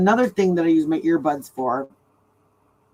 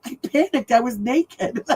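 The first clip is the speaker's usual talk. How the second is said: husband's excuse; 6 semitones higher than usual. Retold or imitated. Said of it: "He's like".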